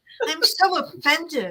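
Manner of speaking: mock-offended dog voice. Talking about dogs sulking at their owners, speaking as a mock-offended dog. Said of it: "They get insulted".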